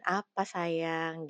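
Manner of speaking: doting female teacher. Retold or imitated. Female teacher answering a favourite pupil, lightly imitated doting. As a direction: stretch it out like a fond teacher answering. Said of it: "kayak manggil guru-guru yang perempuan".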